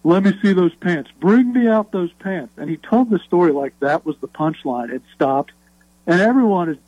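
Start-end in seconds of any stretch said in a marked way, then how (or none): 0.0-2.5 imitating Butch. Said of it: "And he's like".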